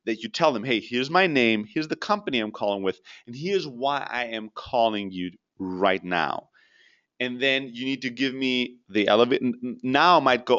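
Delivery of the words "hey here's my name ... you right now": measured, unhurried cold-call introduction; slow down and space out each phrase; slow, deliberate opener. Shown as a demonstration. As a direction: demonstrate speaking slowly to a prospect. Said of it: "make sure that you speak slowly".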